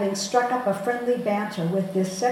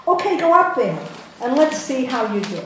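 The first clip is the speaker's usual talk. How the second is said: hearty challenge; 5 semitones higher, 6 dB louder than usual. Retold or imitated. Fishmonger challenging loudly.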